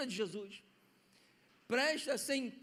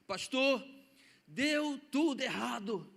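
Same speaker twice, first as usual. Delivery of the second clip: put-on child's cheerful news; 4 dB louder, slower than usual. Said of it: "abraça o pastor e diz".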